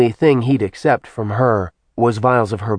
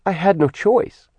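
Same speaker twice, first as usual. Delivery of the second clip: higher, nervous female voice; small, gulping reply; goddess voice; 9 semitones higher than usual. Acted. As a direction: defend yourself timidly as Artemis. Artemis voiced by narrator.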